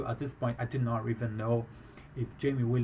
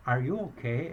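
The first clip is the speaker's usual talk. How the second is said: lightly voiced concerned question, near usual pitch; concerned check. Embassy clerk asks the crying caller, mildly concerned. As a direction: ask with mild concern, rising on the question.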